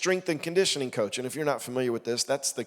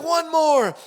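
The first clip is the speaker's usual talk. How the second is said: higher, firm command; insistent coach; 13 semitones higher, 7 dB louder than usual. Retold or imitated. Coach repeating order.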